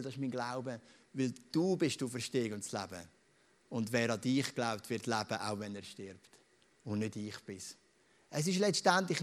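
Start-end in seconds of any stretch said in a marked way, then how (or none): 0.0-7.8 hushed confession of faith. Real, not acted. Pastor voices his quiet creed.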